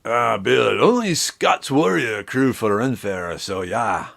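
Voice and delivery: put-on half-hearted Scottish accent that trails off; a wobbly, barely-there Scottish brogue; attempted Scottish accent. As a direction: slip into a Scottish accent, then lose it. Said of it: "me starting to do Scottish".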